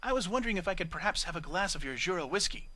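prim, overly polite request; airy and polite. Acted. Octavia coaxing the bar mare for whiskey, airy and polite. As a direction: ask nicely with put-on refinement. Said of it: "put on her most airy and polite tone".

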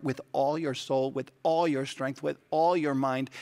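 each "all" leaned on in "with all your soul"; stress on all. Shown as a demonstration. Pastor reading Luke to the congregation, stressing "all". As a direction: hit "all" every time, "with all your strength". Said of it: "with an emphasis on the word all".

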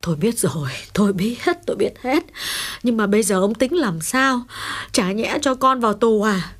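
breathy, distressed wife's reply; helpless, mildly tearful pleading; miserable. Acted. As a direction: answer wretchedly, starting almost in a whisper. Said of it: "Bà khổ sở đáp lời chồng".

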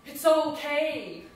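slow, loud, choking on tears; choked sob. Retold or imitated. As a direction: force it out through sobs. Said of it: "He choked out".

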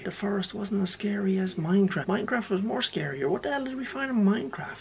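lightly put-on whiny complaint; high silly voice. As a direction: grumble in a silly high register.

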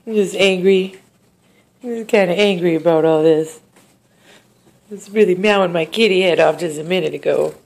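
loud, grumpy cat voice put on by the owner; voicing the cat. Owner speaks for cat Jonas, loud and grumpy.

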